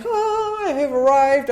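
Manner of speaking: high, drawn-out sigh of arrival; mock bliss. Newly sober speaker recalls feeling arrived, mock bliss. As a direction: savour arriving, a little hammed-up.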